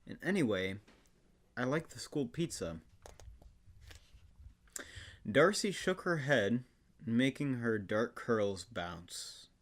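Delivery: mock-earnest storybook reading with long pauses; dramatic reading. Guest performing Full House book aloud, dramatic reading. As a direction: lift the quotes, draw out the phrases dramatically.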